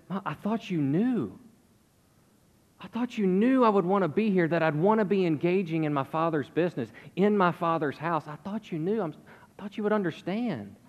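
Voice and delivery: sincere, not sarcastic. Retold or imitated. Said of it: "this would have been".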